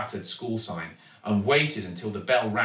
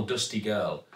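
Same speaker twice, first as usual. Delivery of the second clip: usual speaking voice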